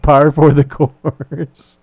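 slow mock German accent. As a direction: draw out "Par for the course" in a hammy German accent. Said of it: "You're losing that accent a lot".

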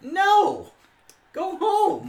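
high, loud, laughing send-off; mock scolding refusal. Host refusing the porch drinker, mock scolding through laughter. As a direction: order her away with the voice pitched right up. Acts out sending the friend away.

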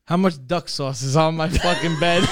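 mock angry yell; half-hearted angry roar; retold shout. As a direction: yell it like the roommate finding the mess. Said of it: "He goes".

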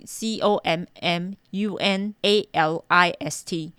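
C O M M U N A L I S T spelled letter by letter, slowly; spelling it out. Shown as a demonstration. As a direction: spell COMMUNALIST out one letter at a time. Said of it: "这个字是怎么拼？".

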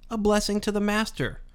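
words broken by a burp. Real, not acted. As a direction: burp mid-phrase. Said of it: "excuse me for the burp".

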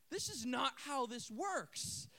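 slow, mock-indignant protest; imitated flabbergasted girl. Girl to boy who just walks off, flabbergasted mock protest. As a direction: spell it out in disbelief, drawn out. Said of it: "This girl is just flabbergasted".

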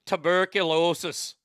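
imitated movie bartender's Irish accent. Host quotes the bartender from Wyatt Earp, mock Irish accent. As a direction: say "tuberculosis" with a put-on Irish lilt. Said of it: "he meets this bartender that was a boxer".

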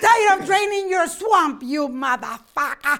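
high-pitched, fed-up outburst; hammed-up rage, slowing on the final curse; Melania. Acting a wife attacking her husband, fed-up angry outburst.

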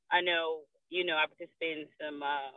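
breaking up on a car phone call; car speakerphone. Real, not acted. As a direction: voice cutting out from a moving car. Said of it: "see, you breaking up".

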